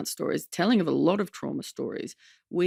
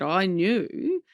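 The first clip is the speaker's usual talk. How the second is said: Mum's voice; 2 semitones higher than usual. Retold or imitated. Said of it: "committing to Mum's voice here".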